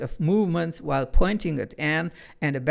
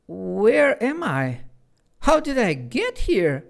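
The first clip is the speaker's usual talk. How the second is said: timid; 6 semitones higher than usual. A narrator's reading. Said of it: "asked Anne timidly".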